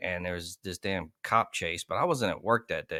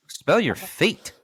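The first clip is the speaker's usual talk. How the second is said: incredulous repeat; 9 semitones higher, 4 dB louder, much slower than usual. Acted. Host repeats the caller's request.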